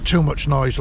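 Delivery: retold grumble, first time; old man's retort. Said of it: "And he says".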